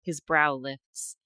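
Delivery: measured fiction reading, lines falling away at the ends; story narration. Acted. Host reading a fantasy excerpt to co-host, story narration. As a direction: read it like a romantic fantasy audiobook.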